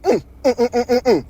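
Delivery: quick run of mimicked "mm"s; imitated wordless moans. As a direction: mimic repeated muffled moans. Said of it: "she like".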